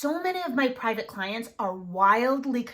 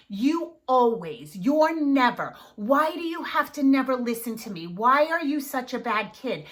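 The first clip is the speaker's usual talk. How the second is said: catastrophic language; 3 dB louder than usual. Shown as a demonstration. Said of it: "we say really damaging things".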